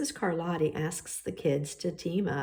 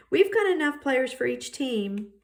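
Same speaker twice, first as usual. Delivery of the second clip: voiced JT; 7 semitones higher, 4 dB louder than usual. JT excluding Brian from kickball.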